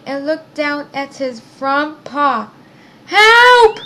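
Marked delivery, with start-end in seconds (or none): 3.1-3.8 high, loud panicked cry; crying for help. A narrator's reading. Hurt guinea pig calls to Jenny, high loud cry. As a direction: shout for help, much higher. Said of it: "he cried".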